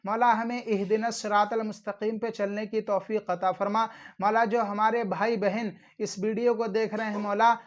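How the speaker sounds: earnest supplication for the viewers; prayer. Acted. Preacher praying for his viewers, earnest supplication. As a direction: pray aloud for all who watch.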